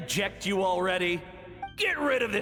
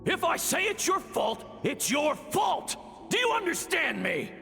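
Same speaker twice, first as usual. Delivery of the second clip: angry scolding; 3 semitones higher than usual. Acted. Scolding parent in dream fragment.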